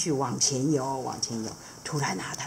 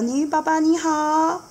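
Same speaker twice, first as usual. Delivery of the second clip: much higher, fast and chatty; eager seahorse dad; 11 semitones higher than usual. Acted. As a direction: rattle it off, knowing and playful. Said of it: "他就跟鲶鱼爸爸说".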